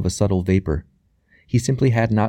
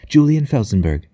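higher-pitched repeat of the name; strange excitement; 5 semitones higher, 4 dB louder than usual. A narrator's reading. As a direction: repeat it with rising fervour. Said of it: "that strange excitement suddenly alight in her eyes".

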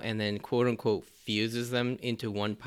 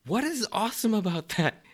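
higher, louder cartoon yell; imitating Sanji; 10 semitones higher, 5 dB louder than usual. Sanji yelling at Luffy over the fused fighter, loud mock outrage. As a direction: shout it in outraged disbelief. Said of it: "as he's like".

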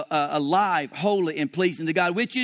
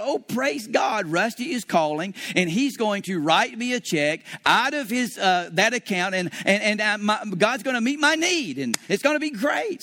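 excited; 2 semitones higher than usual. Retold or imitated. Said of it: "I'm all excited".

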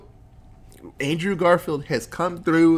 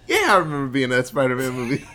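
laughing through it; faster than usual. Real, not acted. Repeating the joke, cracking up.

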